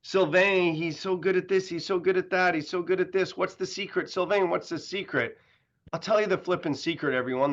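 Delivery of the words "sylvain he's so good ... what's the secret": imitating admirers. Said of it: "People are asking".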